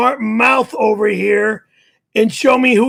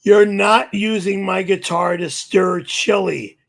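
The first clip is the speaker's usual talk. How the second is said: ordinary talk, nothing marked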